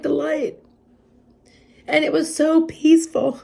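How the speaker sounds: high, choked-up voice with long pauses; real tearful awe. Real, not acted. Overcome recalling light and God.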